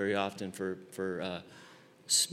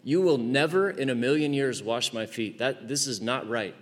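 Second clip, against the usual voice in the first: extreme Peter; 3 semitones higher than usual. Acted. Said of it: "Total extreme personality".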